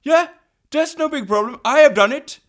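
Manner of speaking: high, loud breezy boast; high-pitched, hammed-up bragging; mock boasting. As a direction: call it down like it's nothing. Friend's boast voiced from the mountaintop.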